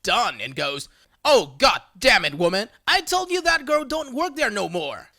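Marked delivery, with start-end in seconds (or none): 1.2-5.1 fed-up Southern drawl, louder start; weary Southern husband scolding his wife in a drawl; husband scolding his wife in a deep southern drawl. Retold or imitated. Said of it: "In all the deep southern drawl glory".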